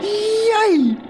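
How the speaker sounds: high, drawn-out whoop; gleeful high yell; yelled cheer. Acted. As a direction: cheer it out in triumph. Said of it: "yelled the professor".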